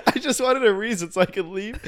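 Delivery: retold smart-aleck comeback; smart-ass. Retelling an excuse to avoid parking the car, smart-ass. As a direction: imitate a drunk friend's cheeky excuse. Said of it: "my smart ass was like".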